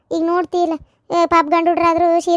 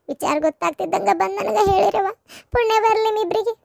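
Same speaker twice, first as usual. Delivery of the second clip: laughing; 3 semitones higher than usual. Acted. Mother thanking the neighbour women.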